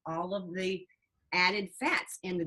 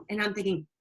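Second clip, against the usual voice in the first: ordinary delivery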